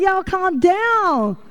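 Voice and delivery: slow soothing calm down; slow it right down to settle the room; calming down a shouting game room, slow and soothing; calming everyone. Retold or imitated. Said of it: "we're just like".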